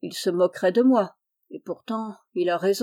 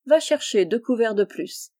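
ordinary delivery, nothing marked

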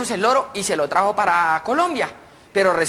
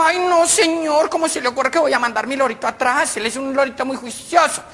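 high lady voice; 6 semitones higher than usual. Acted.

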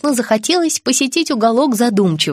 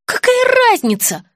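much higher, dismissive scoff; 14 semitones higher than usual. A narrator's reading. Daughter scoffing at her mother about the sauce, high. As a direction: brush off her mother's point. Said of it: "хмыкнула дочь".

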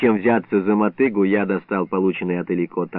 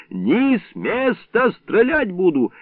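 slow, higher threatening call; threatening shout; 10 semitones higher, slower than usual. Acted. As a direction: freeze them with a threat. Watchman threatens thieves.

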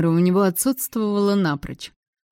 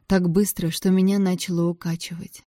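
ordinary delivery

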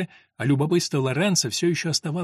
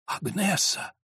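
starts hushed, bursts out higher on the oath; gasped name, then a cry to heaven; shocked recognition breaking into an outcry; exclaiming; 6 semitones higher, slower than usual. A narrator's reading. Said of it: "воскликнул Лоренцо".

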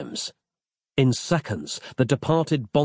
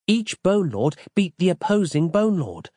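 Roz; 8 semitones higher than usual. A narrator's reading. Roz voiced in narrated story.

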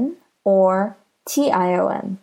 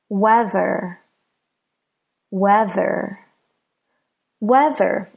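"Weather" with WEA stressed, ther light; stress on first syllable; slower than usual. Shown as a demonstration. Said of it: "the we in weather is stressed".

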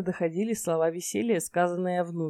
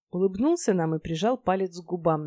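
ordinary delivery, nothing marked

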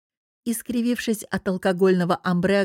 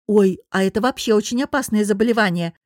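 mock caring coo; 4 dB louder than usual. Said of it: "заворковала я заботливо".

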